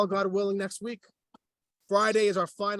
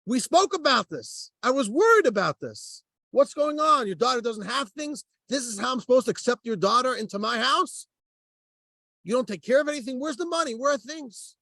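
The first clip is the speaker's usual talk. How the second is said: higher-pitched, mildly indignant tirade; agitated mock scolding, pitched up; retold screaming; 5 semitones higher than usual. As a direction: act out an upset man scolding, without really shouting. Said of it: "He's screaming at him".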